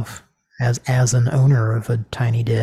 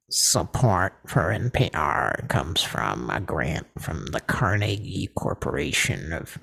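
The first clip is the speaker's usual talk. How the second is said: constipated, pinched-nose announcer; 6 semitones lower, 6 dB quieter than usual. Retold or imitated. Co-host recalls the radio sponsor guy, imitating his constipated drone. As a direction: drop low and drag it out, as if straining. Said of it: "sounded like he was constipated and pinching his nose".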